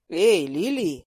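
lightly voiced Lucas calling out; surprised call. A narrator's reading. Lucas calls after Лили as she passes, surprised. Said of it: "удивлённо крикнул Лукас мне вслед".

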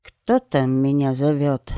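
a lightly voiced raspy crone; hoarse voice. Witch answering from the leaves, slow hoarse call. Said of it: "раздался хриплый голос".

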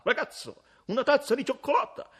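high, loud, quick call; calling across the café. Acted. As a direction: order across the room. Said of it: "gridò da lontano".

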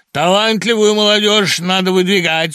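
loud, high stern pronouncement. A narrator's reading. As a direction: lay down the law to the director. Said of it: "строго глянув на главного". (строго и громко)

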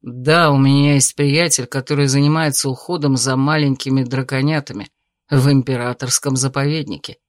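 calm suitor. Acted. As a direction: reason with her gently. Male lead character voice.

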